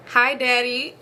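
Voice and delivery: lightly put-on babyish greeting. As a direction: imitate her little baby voice. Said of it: "this little baby voice".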